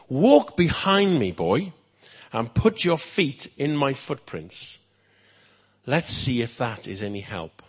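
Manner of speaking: kindly king. Acted. King instructs page.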